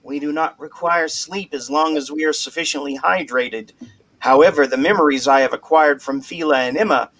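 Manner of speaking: flat robotic monotone. Pretend. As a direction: read it like a robot. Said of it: "most robotic voice that you can".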